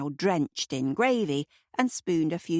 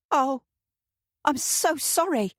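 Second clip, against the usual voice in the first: higher, louder, alarmed apology; alarmed cry; 9 semitones higher, 3 dB louder than usual. A narrator's reading. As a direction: blurt out in sudden alarm. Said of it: "Kate cried".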